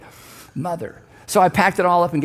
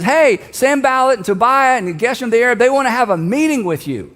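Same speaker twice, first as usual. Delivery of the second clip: lightly acted messenger, higher and louder; messenger calling up; 5 semitones higher, 4 dB louder than usual. Messenger to Nehemiah up on the wall, calling up. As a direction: call up to someone on a wall, mildly projected. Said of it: "messenger looks up and says".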